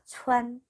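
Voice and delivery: "추안" held on an even tone; pronunciation demo. Shown as a demonstration. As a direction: model "추안" as one level, drawn-out syllable. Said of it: "추안 이렇게 읽으시면 되고요". ("추안"을 평평하게 끄는 발음 시범)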